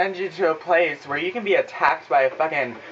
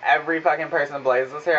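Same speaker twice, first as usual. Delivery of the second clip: incredulous echo. Retold or imitated. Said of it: "I'm saying this in my fucking head".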